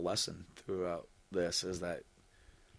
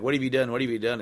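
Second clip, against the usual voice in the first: shocked shout; 5 semitones higher, 7 dB louder, faster than usual. Acted. Voicing Harry's shocked cry.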